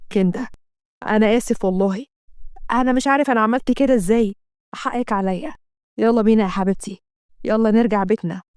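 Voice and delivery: a lightly voiced husband begging forgiveness; low tender plea; pleading husband. Asem pleads with Kenda.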